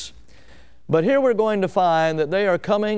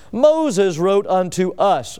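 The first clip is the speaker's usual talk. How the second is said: slow, drawn-out, prideful scripture quote; oozing pride; slower than usual. Acted. Preacher quoting Sadducees who question Jesus, oozing pride. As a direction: stretch each word with proud self-importance. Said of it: "the oozing of the pride".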